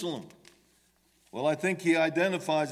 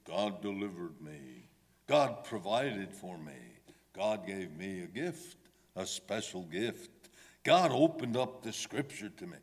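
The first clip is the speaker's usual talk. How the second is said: lower, softer, mock-pious friends; pious testimony voice; 8 semitones lower, 4 dB quieter than usual. Imitating dishonest friends giving testimony, hushed and lower. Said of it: "they would say".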